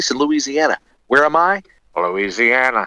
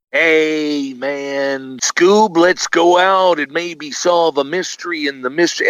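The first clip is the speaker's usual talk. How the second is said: higher mock Shaggy voice; 4 semitones higher, slower than usual. Joking about a star voicing Shaggy badly. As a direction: lightly imitate Jack Nicholson playing Shaggy. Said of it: "I'm thinking".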